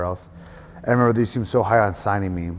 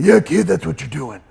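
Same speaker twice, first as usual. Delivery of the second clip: gruff, slow, higher and louder boss voice; imitating Johnny Ace; 8 semitones higher, 8 dB louder than usual. Wrestler mimics the hiring boss brushing him off, gruff. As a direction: do his dismissive brush-off, slower. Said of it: "That's how he sounds".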